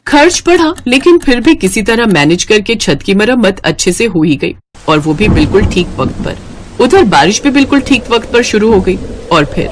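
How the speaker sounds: calm storyteller's narration; story narration. A narrator's reading. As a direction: narrate the family gently, like a tale. (कहानी सुनाने वाला अंदाज़)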